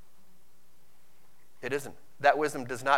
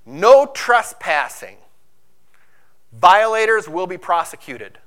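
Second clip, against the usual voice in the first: stern sign reading; 8 dB louder than usual. Retold or imitated. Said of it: "it'll say".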